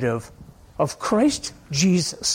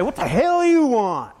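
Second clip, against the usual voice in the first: mildly exasperated retort, higher and drawn out; mock irritated outburst; 4 semitones higher, slower than usual. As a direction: imitate someone rudely turning on a stranger. Acts out believer's rude snapped reply.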